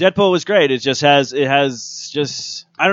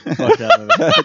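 angry outburst; 11 semitones higher, slower than usual. Real, not acted. Venting about Elektra.

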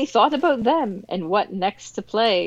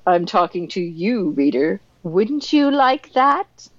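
teasing. Retold or imitated. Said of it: "looked at the camera like a little tease".

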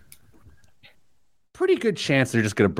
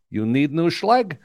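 locksmith impression; 5 semitones higher, slower than usual. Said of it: "turns to me without missing a beat".

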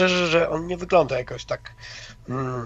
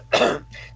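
dry throat clear. Real, not acted. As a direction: clear your throat once. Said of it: "problemy z gardłem". (odchrząknięcie)

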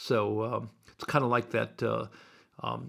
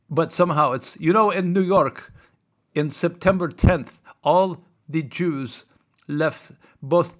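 higher, louder mock driver ranting; retold cabbie rant; 3 semitones higher, 6 dB louder than usual. Retelling driver's conspiracy rant.

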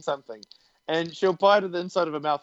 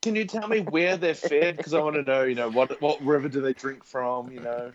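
put-on Californian accent; 4 dB louder than usual. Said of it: "eighty percent of Californians".

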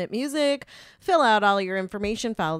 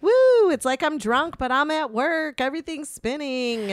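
dizzy exclaim; 5 semitones higher than usual. Retold or imitated. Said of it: "So I'm like".

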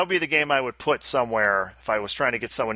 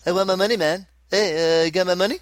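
pushy, higher customer voice; demanding customer voice; 6 semitones higher than usual. Retold or imitated. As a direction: lean on them for the money. Mimicking angry customers demanding money.

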